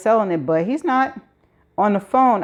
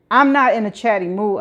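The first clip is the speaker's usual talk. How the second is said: mild mock scream. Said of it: "I scream".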